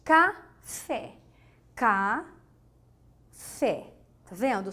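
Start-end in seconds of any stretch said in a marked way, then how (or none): 0.0-1.2 "Café" split after "Ca", higher pitch; two separate syllables. Shown as a demonstration. Teacher divides a two-syllable word, separated syllables. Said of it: "são dois momentos". 1.8-2.2 "café" as a drawn "ca", long pause, "fé"; two separate syllables. Shown as a demonstration. Teacher shows two moments of speaking, syllable by syllable. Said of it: "são dois momentos".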